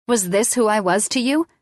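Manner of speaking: accusing. A narrator's reading. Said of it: "the accusation in my voice".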